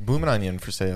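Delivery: mock Australian sales line; amateur Australian impression; put-on Australian accent. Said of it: "Let's hear it".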